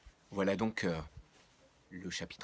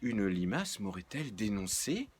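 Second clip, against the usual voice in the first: mock-offended, pitch up; playfully affronted; 2 semitones higher, 3 dB louder than usual. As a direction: feign wounded indignation. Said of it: "d'une voix offusquée".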